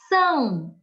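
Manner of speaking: São as one punched, isolated beat; stressed syllable. Shown as a demonstration. Teacher isolates the strongest sound for pupils, São punched. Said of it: "Olha o som mais forte aí no são".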